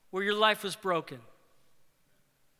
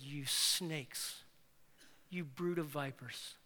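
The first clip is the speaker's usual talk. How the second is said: special tone; 5 semitones lower, 10 dB quieter, slower than usual. Acted. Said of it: "Jesus saved a special tone of voice for these guys".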